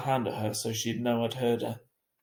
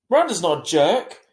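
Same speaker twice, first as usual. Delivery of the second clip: put-on child's voice; 6 semitones higher, 10 dB louder than usual. A narrator's reading. Augie defending Miranda.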